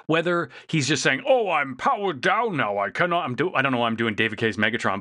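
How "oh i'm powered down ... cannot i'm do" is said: hammed-up cartoon moaner with a wah-wah voice; whiny wah-wah voice. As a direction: stretch it out in a put-on wah-wah whine. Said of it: "he's kinda got that wah, wah, wah voice".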